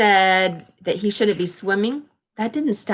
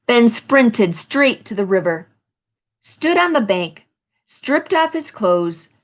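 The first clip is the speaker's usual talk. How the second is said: storybook read-aloud, lively phrasing; picture-book narration; reading to children; slower than usual. A narrator's reading. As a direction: read the page to the class.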